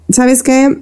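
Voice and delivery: she mimics her husband listing her mistakes, lightly voiced; curt husband. Retelling her husband's blunt criticism, dry and cold. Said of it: "él es muy seco y es muy frío".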